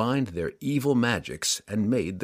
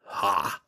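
demon snort. Acted. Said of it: "Ertu snorted".

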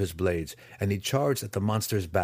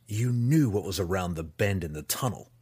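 evenly. Acted. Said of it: "Drizzt said evenly".

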